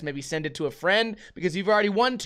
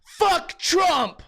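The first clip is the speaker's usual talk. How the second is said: retold yell; 11 semitones higher than usual. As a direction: yell it across the street like a heckler. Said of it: "the guy yells at me".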